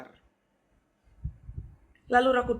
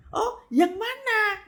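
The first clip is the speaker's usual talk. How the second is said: uncle asking; 13 semitones higher, much slower than usual. Retold or imitated.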